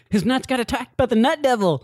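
high voice breaking into laughter; laughing character voice. Retold or imitated. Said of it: "he's like".

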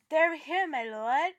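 a mock accent; playing Walder Frey's servant in a bad accent; hammed-up foreign-sounding lord's servant; terrible accent. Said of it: "pardon my terrible accent".

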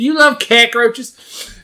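high, slow disbelieving question; you love cockroaches, really?; incredulous. Acted.

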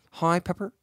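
breaks into laughter mid-impression; Tony Stark voice cracking into a laugh. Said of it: "I lost him".

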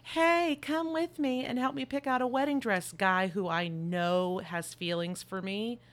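very high, loud, chirpy sing-song; mock Carrie. Carrie asking Charles to help pick her wedding dress, high mock chirp. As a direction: ham up a careless bubbly ask, slowing at the end. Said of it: "then she's like".

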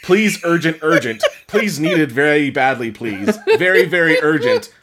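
hammed-up urgent pleading; mock begging. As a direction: read the urgent plea with growing mock desperation. Reading the pleading post aloud.

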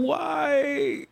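high shouted protest; shouting why. Pretend. Dramatic protest.

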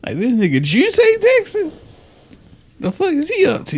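high, nosy gossip voice; mock-suspicious friends. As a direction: play the friends wondering what he's up to. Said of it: "I do look suspicious".

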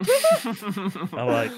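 words broken by a laugh; chuckling while speaking. Real, not acted. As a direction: laugh through it as you tell it.

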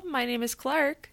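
badly acted deja vu, rising like a question; hammed-up bewildered introduction; mock puzzled. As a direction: say your name as if unsure you've said it before. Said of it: "that was really bad".

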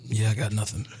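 rough, worn-out voice; hoarse voice. Real, not acted. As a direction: voice nearly gone. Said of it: "I done lost my voice".

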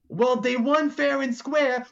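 high, slow, projected proclamation; Big Notch announcing. Acted. Big Notch ruling for the crowd, slow high announcement. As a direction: declare it to a whole crowd. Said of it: "and he's like".

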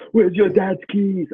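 high, slow anxious mother; worried mum voice. Retold or imitated. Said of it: "Mom's like".

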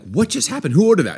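high-pitched retold shock; utter shock. Retelling family's reaction to donut order, high shocked quote. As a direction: act out stunned disbelief, pitch jumping up. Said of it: "with utter shock".

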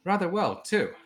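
Star's reply. Acted.

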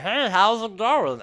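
high, loud, drawn-out puppet greeting; imp puppet voice. Retold or imitated. Goblin puppet pops up to greet the kids, high imp voice. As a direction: pop up as a cheeky little imp. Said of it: "he sort of pops up and he's like".

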